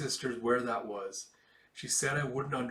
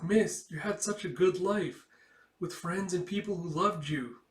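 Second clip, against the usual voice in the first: emotional plea; 6 semitones higher than usual. Retold or imitated. Kip emotionally addressing the queen.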